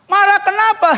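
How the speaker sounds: high, loud insistent query; probing question. Retold or imitated. Pastor questioning congregant about the quarrel, insistent. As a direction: push for the missing detail, loudly.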